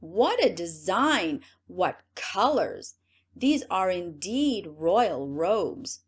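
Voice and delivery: loud, slow gushing cries; crying out in praise. Acted. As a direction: pile on the fake awe. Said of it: "everyone cried out".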